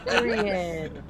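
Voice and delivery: lighter laughing repeat. Real, not acted. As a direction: let it trail off laughing. Repeats, calmer.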